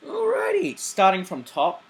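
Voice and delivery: high bouncy alrighty; excited. Real, not acted. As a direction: kick off with a burst. Energetic kickoff.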